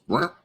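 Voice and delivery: short mimicked "wah"; mock sputter of a noise; imitated machine noise. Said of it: "It goes".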